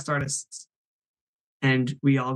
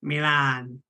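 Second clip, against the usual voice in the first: Edna Mode voice; slower than usual. Acted. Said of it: "Edna mode".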